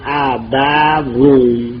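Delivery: ابوون drawn out syllable by syllable; two fathas. Shown as a demonstration. Teacher giving the original form of the word, ابوون slowly sounded out. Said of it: "به دو فتحه بخوان".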